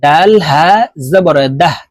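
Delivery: "দাহ" closed on an audible h; silent-vowel h ending. Shown as a demonstration. Teacher shows the pausal form, "দাহ" ending on h. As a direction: spell it out and let "দাহ" end in a puff of h. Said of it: "এভাবে পড়তে হবে".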